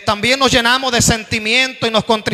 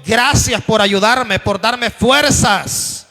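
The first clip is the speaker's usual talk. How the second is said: slow thankful prayer; slower than usual. Shown as a demonstration. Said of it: "aprendamos a decirle".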